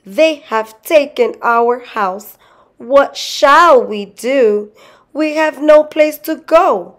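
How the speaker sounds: high-pitched, whimpering lament; tearful wailing. A narrator's reading. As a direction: plead high and despairing, acting the weeping wife. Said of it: "she sobbed".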